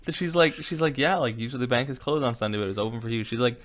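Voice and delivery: high, loud mock Greek accent for Giannis. Podcast host imitating Giannis's interview in a Greek accent. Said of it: "in his Greek accent".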